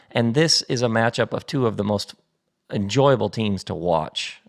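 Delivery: sportscaster delivery; like a TV match announcer. Real, not acted. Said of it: "I sound like an announcer".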